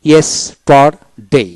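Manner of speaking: slow ইয়েস্টারডে in three beats; syllable by syllable. Shown as a demonstration. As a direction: split ইয়েস্টারডে as ইয়েস, টার, ডে. Word read out split into syllables.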